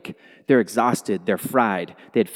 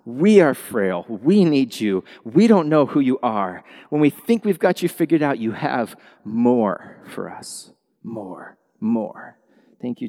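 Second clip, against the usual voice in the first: earnest congregational prayer. Acted. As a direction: pray over the room sincerely. Leads a prayer.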